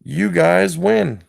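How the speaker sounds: drawn-out, heavy repeat; slow, deliberate. Shown as a demonstration. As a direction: say it slowly with weight. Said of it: "Let me say it again".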